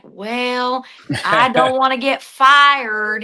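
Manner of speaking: slow, mopey coach voice; lightly voiced worried coach; Sam Pittman impression. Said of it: "Sam Pittman being like".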